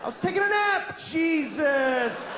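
high frantic yelling fish; startled little fish shouting in panic; panicked fish. Acted. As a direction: scream like a fish waking mid-flush. Fish panics being flushed.

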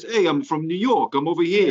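a light New York tough-guy accent, imitating movie henchmen. Mocking the movie's Foot Clan for friends, mild New York accent. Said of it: "all the Foot Clan talk like this".

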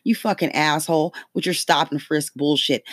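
ordinary delivery

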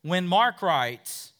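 ordinary talk

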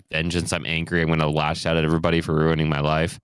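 brooding Batman voice. Retold or imitated. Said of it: "This one is like".

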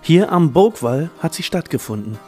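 ordinary talk

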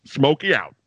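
lightly voiced trucker on the radio; a hint of a trucker calling on CB. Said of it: "like a truck driver going over the C B radio".

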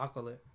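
"chocolate" said with a soft sh at the start, "shocolate"; mispronounced word. Retold or imitated. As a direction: say "chocolate" as "shocklit", imitating his slip. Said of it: "he doesn't know how to say".

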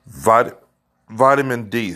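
hiccuping mid-word; words broken by a hiccup. Real, not acted. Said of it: "I got the hiccups".

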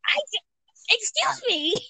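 high, indignant gasped protest; offended squeak. Retold or imitated. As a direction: act shocked and insulted. Offended reaction to teacher's roast.

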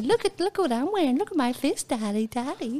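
lightly voiced excited dog calling daddy; a hint of a child's eager voice; voicing the dog.

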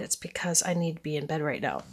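sleepy speech through a yawn. Real, not acted. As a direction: talk mid-yawn, worn out. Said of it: "Excuse me if I yawn".

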